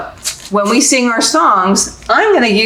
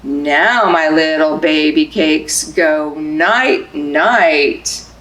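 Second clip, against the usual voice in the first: bedtime lull; 4 semitones lower, slower than usual. Acted. Putting baby to sleep in book.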